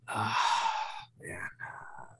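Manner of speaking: mock-grave confession trailing almost to a whisper; imitated fretting dad. Dad phoning about sister's underwear, imitated hushed dread. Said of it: "he's just freaking out".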